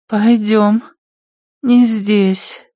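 high, hushed addict voice; junkie voice. Acted. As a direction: urge her along, high and furtive. Junkie leading away nervously.

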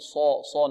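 صا with lips drawn round on the heavy ص; rounded lips saad. Shown as a demonstration. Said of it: "نضم الشفتين". (نطق صا بضم الشفتين)

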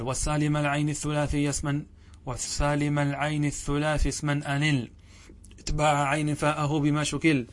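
even, chanted recitation of grammar verses. Acted. Teacher reciting the Alfiya verses before explaining them, in even chant. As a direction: recite the lines steadily in one tone.

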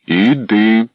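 short loud command; sharp shout. A narrator's reading. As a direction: bark the order. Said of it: "крикнув Данило".

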